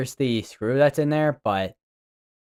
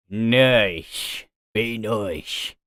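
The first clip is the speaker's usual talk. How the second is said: mock Australian drawl on nice; slow Aussie twang, very nice; Australian accent, slowed and drawn out; much slower than usual. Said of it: "I don't know why I went Australian accent on that one".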